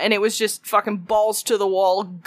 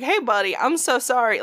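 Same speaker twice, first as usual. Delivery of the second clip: customer service voice; 2 semitones higher than usual. Retold or imitated. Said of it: "super nice customer service voice".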